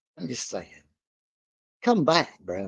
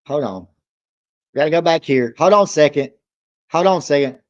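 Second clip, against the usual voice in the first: excited; 8 dB louder, faster than usual. Real, not acted. Excited, calling to wait.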